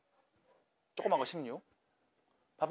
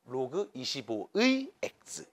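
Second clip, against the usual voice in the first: 로그 이십오의 X, slow and low with 의 drawn out; notation read aloud slowly; 4 semitones lower, 5 dB quieter, much slower than usual. Shown as a demonstration. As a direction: softly spell out 로그 이십오의 X, lingering on 의. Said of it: "이렇게 읽어요".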